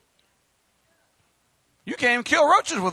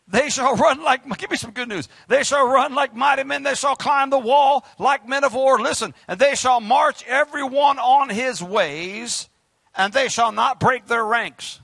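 forceful scripture; 3 semitones higher, 4 dB louder than usual. Acted.

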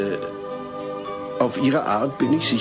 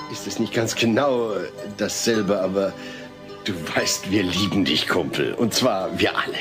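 lower, halting affection; awkward reassurance; 5 semitones lower than usual. Acted. Father tells houseguest he is loved, awkwardly tender. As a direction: reassure haltingly, feeling for the words.

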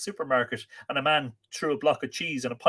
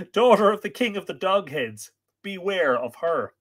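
loud, raised narrated call; called warning; 8 semitones higher, 6 dB louder than usual. A narrator's reading. Woman warning Art of Doghead, calling out. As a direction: call out, slowing on the final warning. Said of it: "she called".

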